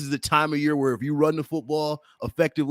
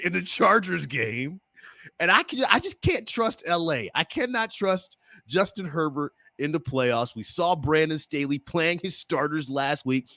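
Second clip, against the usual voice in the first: Mark Gunnels impression; 2 semitones higher than usual. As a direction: lightly play the co-host's pick voice. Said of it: "my best Mark Gunnels impersonation".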